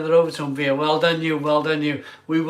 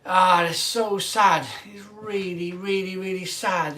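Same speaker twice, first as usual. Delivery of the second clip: mock sad; 2 semitones higher than usual. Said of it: "I'm gonna cry".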